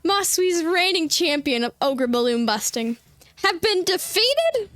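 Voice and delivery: slow, grand, hammed-up lament; mock dramatic. Streamer hamming up Carmen's defeat, slow and dramatic. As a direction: overplay the defeated champion. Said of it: "I was trying to be dramatic".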